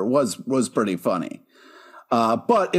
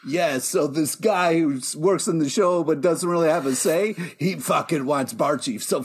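mocking hyped-up rant, ending in a shout. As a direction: lampoon a fan cheering. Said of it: "you were like".

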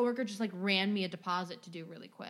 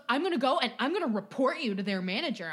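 louder, fast indignant customer rant; mock angry rant; 3 semitones higher, 6 dB louder, faster than usual. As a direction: rattle off the grievance like an entitled customer. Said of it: "he goes".

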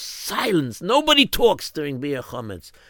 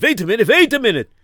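higher and louder each time; rising eureka; building excitement; 11 semitones higher, 7 dB louder, faster than usual. Acted. Building realization.

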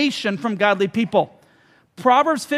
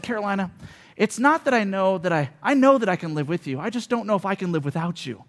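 mock corny line; 4 semitones lower, 5 dB quieter than usual. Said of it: "the stupidest, corniest line".

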